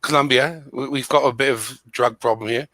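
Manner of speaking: lightly put-on British accent; phony British accent. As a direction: reason it out in a fake British accent. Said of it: "I'm gonna try to put on a British accent".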